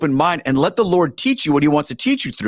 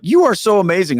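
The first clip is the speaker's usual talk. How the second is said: gushing praise; 4 semitones higher, 4 dB louder than usual. Retold or imitated. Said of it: "I'm like".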